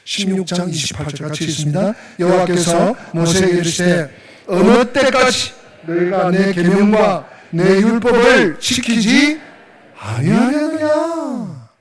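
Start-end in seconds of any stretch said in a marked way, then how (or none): 2.2-11.7 scripture reading. Acted. Pastor reading God's question to Moses, slow sustained scripture reading. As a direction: read the verse out, stretching the closing question.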